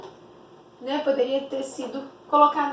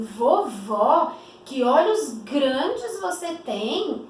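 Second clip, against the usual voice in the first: put-on amazed little girl; much slower than usual. Girl amazed at grandmother's big eyes, slow wondering exclamation. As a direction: marvel at how big grandma's eyes are. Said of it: "ela estava muito admirada".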